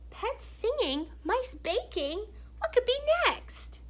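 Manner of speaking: put-on amazed child, thrilled and giggly; giggly wonder. A narrator's reading. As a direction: build up to a giddy high question. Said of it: "Emily giggled".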